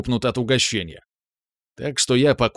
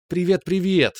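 ringing, bright-toned hello, higher; ringing greeting; 8 semitones higher than usual. A narrator's reading. Masha greeting the guests at the door, ringing. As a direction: let the greeting ring out. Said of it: "зазвенела Маша".

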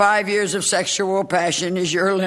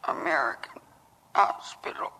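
slurred speech; 7 dB quieter, slower than usual. Acted. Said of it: "It was a stroke".

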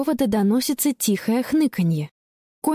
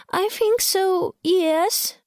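put-on high, slow tearful girl; girl on phone confessing through tears; tearful admission; 11 semitones higher, much slower than usual. Caught girl admits, crying.

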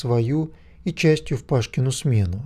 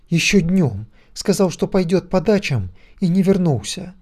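anxious mother; 6 semitones higher than usual. A narrator's reading. Zoya reports son missing.

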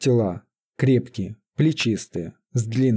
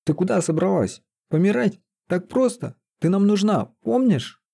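high-pitched, acted exasperation; heated outburst; 8 semitones higher than usual. A narrator's reading. Sorcerer scolds Лиза for giving up, heated outburst. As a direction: fire reproachful questions with raised pitch. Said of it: "взорвался чародей".

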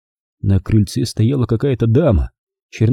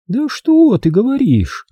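slow, high, stretched vowels; lingering, high-pitched disbelief; drawn-out; 13 semitones higher, slower than usual. A narrator's reading. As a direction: drawl it with mock surprise. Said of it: "протянула тётка".

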